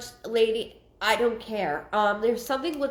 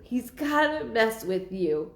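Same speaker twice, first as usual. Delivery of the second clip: ordinary delivery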